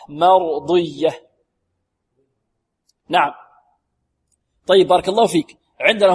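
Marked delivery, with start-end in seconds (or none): 0.1-1.3 "مرضية" slow, with a sealed emphatic ض; careful tajweed model of "مرضية"; sealed dad demo. Shown as a demonstration. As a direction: draw out "مرضية", pressing tongue to palate on ض. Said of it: "وهي مطبقة".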